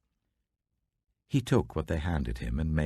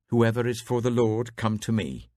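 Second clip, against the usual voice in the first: louder, higher rallying call; 6 semitones higher, 5 dB louder than usual. Acted. Moses calling the people at the camp entrance, loud. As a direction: summon the whole camp to you.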